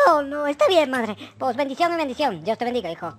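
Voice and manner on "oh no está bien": ordinary talk, nothing marked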